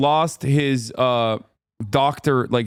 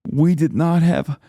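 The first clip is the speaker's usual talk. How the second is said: put-on thick American accent; 2 semitones higher than usual. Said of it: "a thick American accent".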